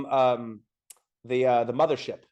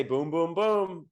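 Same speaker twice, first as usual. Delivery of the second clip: dad calling boom boom boom; 3 semitones higher, much slower than usual. Retold or imitated. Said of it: "My dad would say".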